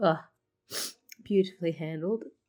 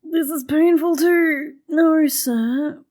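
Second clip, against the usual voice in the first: slow, choked-up words; fighting back real tears; real teary; 6 semitones higher, 9 dB louder, much slower than usual. Real, not acted. Streamer moved by a sad scene.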